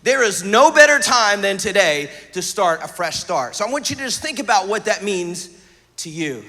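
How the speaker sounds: earnest, driving sermon delivery; emphatic preaching. Real, not acted. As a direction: preach it with punch on the key words. Preaches with force to congregation.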